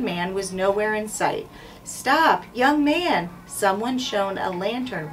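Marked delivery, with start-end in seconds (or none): 1.8-3.3 commanding stop. Acted. Captain halting Jack with a raised shout. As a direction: call out to stop him.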